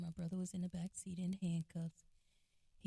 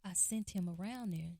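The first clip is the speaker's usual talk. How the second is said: apologetic; 2 semitones higher than usual. Retold or imitated. Mom apologizing to the officer, mildly distraught. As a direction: plead sorry, a hint of distress. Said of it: "my mom was so apologetic".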